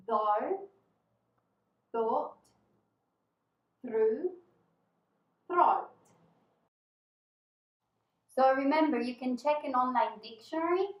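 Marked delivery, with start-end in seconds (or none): 0.1-5.9 "Though, thought, through, throat" each said slowly with the tongue between the teeth; "Though" with a buzzing voiced th, then "thought, through, throat" with a hissed voiceless th; slow th drill. Shown as a demonstration. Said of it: "let's do it together".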